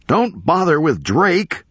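high-pitched, drawn-out call, moderate volume; acted yell. A narrator's reading. Professor calling to the attorney over Drake, narrated yell. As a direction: call it out high and slow, without full force. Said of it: "Hoffman yelled to Evans".

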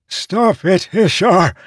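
shouting. A narrator's reading. Desperate plea amid pain.

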